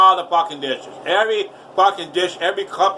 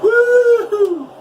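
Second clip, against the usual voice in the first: high, loud woo-hoo; real cheer as the chicken is done; excited cheer; 6 dB louder than usual. Real, not acted. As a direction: whoop with joy.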